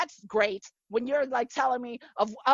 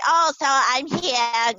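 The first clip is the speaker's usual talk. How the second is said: drawn-out, higher Japanese-accented mom; mom's Japanese accent; 4 semitones higher, 5 dB louder, slower than usual. Shown as a demonstration. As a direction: imitate a Japanese mother's accented English. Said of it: "when I do my mom".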